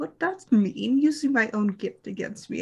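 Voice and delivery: muttered, grumbling, complaining tone. A storyteller voices a man as he heads out; grumbling. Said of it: "he kind of grumbles".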